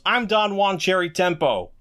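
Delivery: a hint of Jake's drawl, slowed down; impression of Jake. Podcast host quoting a favorite line, lightly voicing Jake. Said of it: "Oh, that was my best Jake".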